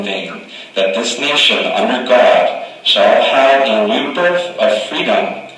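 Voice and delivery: measured, solemn oration; formal speech recital. Acted. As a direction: deliver it like a statesman at a podium. Recites the Gettysburg Address.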